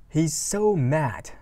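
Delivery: every word stretched slowly; careful teacher read; slow lyric reading. Shown as a demonstration.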